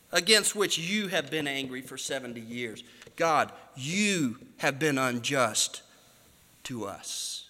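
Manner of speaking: low, slow, weighty reading of against which; bold accusation. Retold or imitated. Preacher voicing the prophet's bold charge, low and slow. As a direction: lean hard on against and you, slowly. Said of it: "he's bold".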